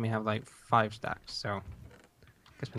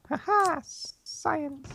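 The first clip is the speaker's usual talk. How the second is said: triumphant; 13 semitones higher, much slower than usual. Pretend. Gleeful mad scientist cackle.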